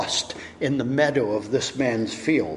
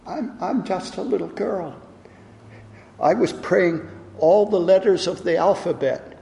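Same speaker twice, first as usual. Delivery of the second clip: put-on higher, earnest child voice; innocent little girl; 5 semitones higher than usual. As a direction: speak like a small trusting child. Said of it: "with an innocent little face, and she said".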